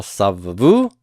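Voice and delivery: savavu, accent on final VU; stress toward the end. Shown as a demonstration. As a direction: let savavu rise onto its last syllable. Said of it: "stress goes toward the end".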